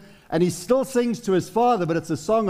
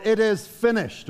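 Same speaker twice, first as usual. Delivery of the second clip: slow solemn quote; 4 semitones higher than usual. Retold or imitated. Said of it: "Jesus on the cross".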